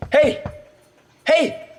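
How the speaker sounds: sharp high shouts to get her attention; calling out. Acted. Captive shouting to the waking woman, high and loud. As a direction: call out urgently to her.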